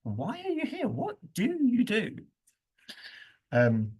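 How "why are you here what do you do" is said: rude challenge. Shown as a demonstration. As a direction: challenge them as if they don't belong. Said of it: "not a particularly polite way".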